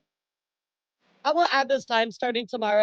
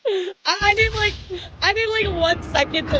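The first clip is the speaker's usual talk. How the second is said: high, teary voice breaking; crying through the words; ugly crying; 8 semitones higher than usual. Real, not acted. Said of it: "I'm ugly crying".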